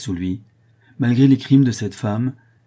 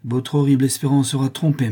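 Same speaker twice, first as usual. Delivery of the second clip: higher-pitched indignant retort; 5 semitones higher, 4 dB louder than usual. A narrator's reading. Son to his mother, indignant. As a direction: contradict firmly, offended. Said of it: "répondit Martial, indigné".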